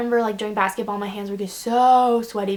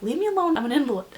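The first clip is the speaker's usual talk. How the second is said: mock dramatic whine; 5 semitones higher, faster than usual. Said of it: "you're like".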